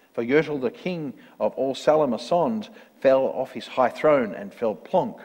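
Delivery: measured, rhythmic storybook reading; story narration. A narrator's reading. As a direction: read it out like a rhyming picture book. Reads a rhyming story.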